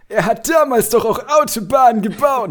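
squeaky put-on character voice; Fresh Dumbledore voice. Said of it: "Fresh Dumbledore würde kurz was sagen".

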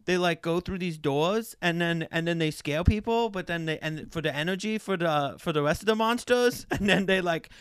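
lightly put-on toddler voice; mock little-kid plot recap; rambling kid. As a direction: imitate a small child running on and on. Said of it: "you know when a kid's just".

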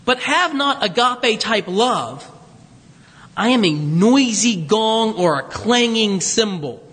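slow scripture reading. Acted.

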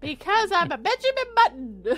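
high pretend child voice; five-year-old narrator. Explaining the reverse ageing, pretend five-year-old voice. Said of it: "do you sound like five".

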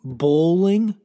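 loud disbelieving bowling; incredulous. Acted. Comedian ranting that bowling is a sport, incredulous. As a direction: spit the word out in outrage.

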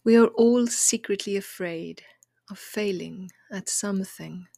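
measured poem recital in short phrases with long pauses; poem reading. Acted. Podcaster reads listeners a poem about fear of failing, measured recital. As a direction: read it as a gentle, deliberate provocation.

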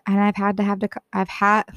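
trips over the words and cuts off; a flubbed first try, breaking off mid-word; stumbling take. Real, not acted. Teen vlogger fumbling her line before retrying, tripping over words. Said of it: "let me try that one more time".

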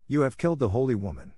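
shocked, high-pitched accusation; horrified cry. A narrator's reading. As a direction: cry it out in dismay. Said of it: "cried the princess".

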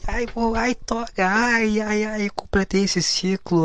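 drawn-out whiny "ai"s, high then sinking; mocking fake glee. Graduate mocking those who brag about finishing college, sarcastic gushing. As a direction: imitate a gushing new graduate, sarcastically slow.

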